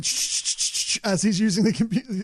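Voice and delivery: clicking sh sounds like a camera shutter; shutter sound imitation. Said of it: "camera shutter just hitting over and over".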